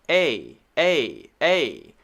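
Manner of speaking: A said as the short a of fan. Shown as a demonstration. Teacher showing tongue forward for short a. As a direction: demonstrate the short a. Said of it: "when we made the A sound".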